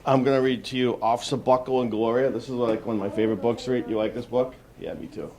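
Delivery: ordinary delivery, nothing marked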